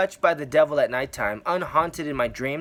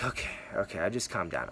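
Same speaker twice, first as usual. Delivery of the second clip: settling down; 6 semitones lower, 8 dB quieter, faster than usual. Retold or imitated. Calming down after God speaks.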